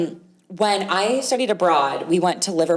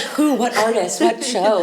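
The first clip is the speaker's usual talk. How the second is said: higher, excited rapid questions; eager; 3 semitones higher than usual. Retold or imitated. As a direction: fire off the questions, thrilled. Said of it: "I was like".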